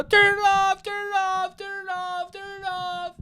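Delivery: high, frantic pleading that fades; panicked begging. Retold or imitated. A scared kid begging his brother to turn it off, high and frantic. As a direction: beg in terror, over and over. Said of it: "I go".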